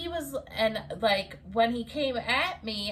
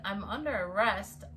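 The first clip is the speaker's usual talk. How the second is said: retold disbelief in her usual pitch; questioning the arrest. She answers the arresting cop, mildly disbelieving. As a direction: echo the officer's words back, understated. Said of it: "And I said".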